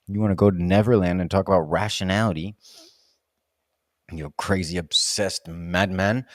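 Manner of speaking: low mock scolding of himself; self-scolding. Real, not acted. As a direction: tell yourself off, half joking. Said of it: "scolds himself after coffee outburst".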